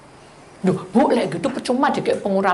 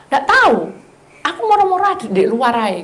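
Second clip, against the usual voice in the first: high, louder helpless reply; baffled husband; 6 semitones higher, 3 dB louder than usual. Retold or imitated. Husband to wife, baffled high reply. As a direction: shrug it off, pitched up.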